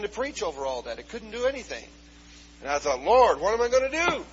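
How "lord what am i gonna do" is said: loud, raised plea to God; desperate outcry. Retold or imitated. Preacher retelling his plea amid panic, desperate outcry. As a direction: cry out as if overwhelmed mid-sermon.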